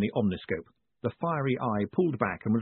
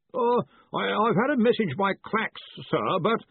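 nervous caller; 10 semitones higher than usual. A narrator's reading. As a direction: announce yourself timidly to a superior far away. Nervous Collarbone begins report.

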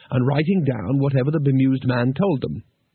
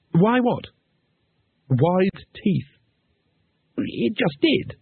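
Two Flower; 7 semitones higher, much slower than usual. Acted.

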